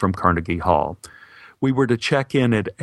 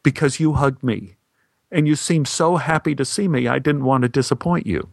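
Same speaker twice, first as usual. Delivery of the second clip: uncertain; 4 semitones higher than usual. Retold or imitated. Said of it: "with a good deal of uncertainty".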